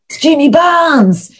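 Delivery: high-pitched, urgent imitation; retold urgent reveal. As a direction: act out alerting someone to a celebrity. Co-worker's urgent reveal, acted out.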